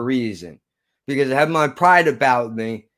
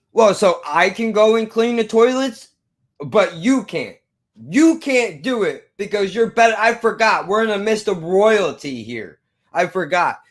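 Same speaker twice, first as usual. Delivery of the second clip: mildly mocking, raised-pitch imitation; sarcastic rant; 5 semitones higher than usual. Manager mocking teen who won't clean toilets, acted sarcasm. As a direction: imitate a boss laying on the sarcasm.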